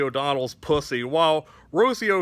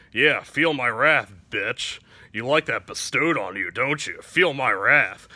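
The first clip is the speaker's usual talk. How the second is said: lightly voiced Freddy, savoring the torment; gloating Freddy; 5 semitones lower than usual. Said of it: "Freddy is just standing there like".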